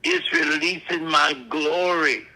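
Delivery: slow preaching in short, separated phrases; deliberate prophetic declaration. Real, not acted. Preacher voicing God to the congregation, slow and deliberate. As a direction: set down each phrase slowly, with weighty pauses. Preacher speaks God's word.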